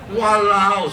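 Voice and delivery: Singlish exclamation, Singaporean accent. Real, not acted. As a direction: blurt it like a local Singaporean. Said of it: "sorry, I talk like this".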